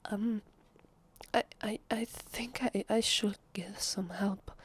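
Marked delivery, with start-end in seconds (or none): 1.3-4.5 hesitant, stuttering unease; flustered stammer. Acted. Vampire unsettled by a bleeding visitor, stammering nervously. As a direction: stumble over the words, unsettled.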